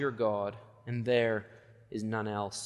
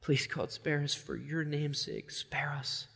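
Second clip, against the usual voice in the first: mumbled desperate prayer; 3 semitones higher, 4 dB quieter, slower than usual. Retold or imitated. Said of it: "all they can manage in their hearts is to mumble to God".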